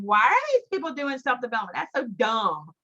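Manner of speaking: imitating her scoffing past self, pitch leaping on "why"; mock scornful disbelief. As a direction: scoff at it like a skeptic, half-joking. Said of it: "I literally would say in my head".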